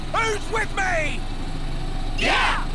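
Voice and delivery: slow build to a high, loud cheer; rallying cry. Acted. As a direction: fire up the crew, ending in a big yell. Rallying the crew.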